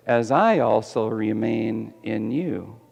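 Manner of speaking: slow, soft and tender; tender promise. Acted. Pastor voicing Jesus's promise to kids, slow and tender. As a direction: ease into it like a gentle reassurance. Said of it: "The promise is".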